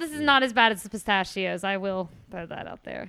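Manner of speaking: talking through a mouthful; words round a bite of food; mouth full. Real, not acted. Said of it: "talking with their mouth full".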